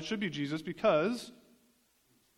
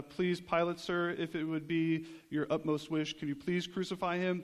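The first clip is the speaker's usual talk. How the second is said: imitating an overly polite request; mock tactful. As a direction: put it as a deferential, measured plea. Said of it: "should have been some social tact".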